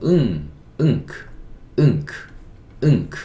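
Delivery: 응크 as a nasal ng closed by a short k; teacher modelling 응크 with pauses between repeats; NK sound demonstration. Shown as a demonstration. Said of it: "이응 소리를 어떻게 내면 좋을까".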